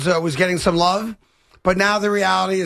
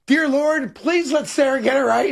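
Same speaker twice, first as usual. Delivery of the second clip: higher-pitched, playful plea; mock pleading prayer; 6 semitones higher than usual. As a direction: send up a little prayer, pitched high.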